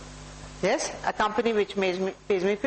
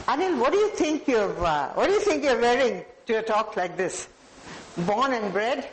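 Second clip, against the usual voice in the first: harsh put-down. Shown as a demonstration. Speaker demos harsh words to audience member, mild scolding. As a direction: belittle him to show speech can harm. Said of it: "what harm it can do".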